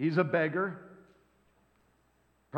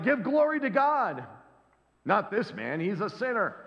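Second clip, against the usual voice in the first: high, scornful Pharisees scolding; high scolding voice, pushing the blind man; mock Pharisees; 5 semitones higher than usual. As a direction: sneer it like a know-it-all Pharisee. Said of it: "They're like".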